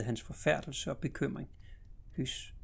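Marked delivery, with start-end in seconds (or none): 2.2-2.5 hushed, much softer hush; a soft mother's hush; very soft shushing. Acted. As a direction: shush gently so as not to wake the child. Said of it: "sagde hun ganske sagte".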